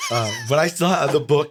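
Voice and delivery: chuckling through the words; laughing. Real, not acted. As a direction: say it while still laughing at yourself. Laughing at the mix-up.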